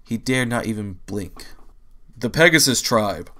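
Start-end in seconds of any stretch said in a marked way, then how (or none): 2.2-3.3 deep announcing voice. A narrator's reading. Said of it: "a deep voice".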